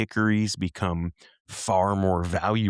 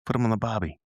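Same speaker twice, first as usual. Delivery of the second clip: put-on Australian accent; 2 semitones higher than usual. Joking with co-host, mock Australian accent. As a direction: ham up an Aussie cliche. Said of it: "as our friends down under say".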